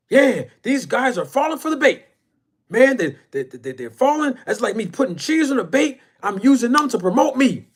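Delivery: hammed-up high boastful rival; mocking his animated voice. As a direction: mimic the cocky guy gloating about the bait. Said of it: "He was talking like that".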